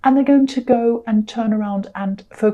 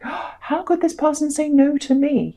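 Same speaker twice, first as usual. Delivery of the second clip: higher-pitched, lightly acted shock; shocked disbelief; 5 semitones higher than usual. Tarot reader voicing the person who gets refused, mock shocked. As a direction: imitate someone taken aback at being refused. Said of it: "really, really shocked".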